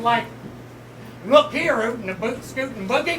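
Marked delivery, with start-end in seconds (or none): 1.2-3.2 hammy fake Southern accent; mock Southern twang. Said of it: "with a fake Southern accent".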